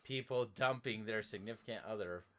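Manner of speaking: loud, slow, deliberate scolding; emphatic disapproval. Pretend. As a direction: lay down the rule word by word. Mock disapproval of dumping a boyfriend.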